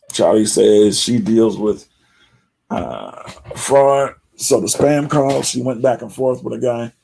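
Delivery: usual speaking voice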